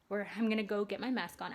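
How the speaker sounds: breathless, puffing between words; a little winded while talking; out of breath. Real, not acted. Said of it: "I don't know why I'm out of breath".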